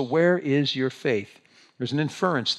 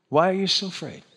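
mean; 5 semitones higher than usual. Shown as a demonstration. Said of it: "You don't need to be mean about it".

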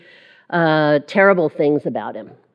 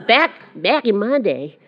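put-on Southern old-timer; lightly hammed-up Southern accent; 3 semitones higher than usual. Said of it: "Southern accent, I'm sorry".

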